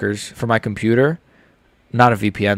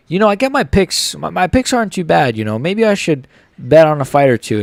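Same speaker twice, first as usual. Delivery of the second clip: lightly voiced hopeful suggestion; mock naive pitch; 4 semitones higher than usual. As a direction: pitch it up like asking permission. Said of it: "I was like".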